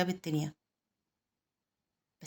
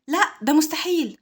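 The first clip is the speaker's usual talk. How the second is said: loud, high, drawn-out refusal; emphatic high shout; 8 semitones higher, 8 dB louder, slower than usual. A narrator's reading. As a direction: cry out the objection, stretching it. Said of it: "بسرعة وبصوت عالي".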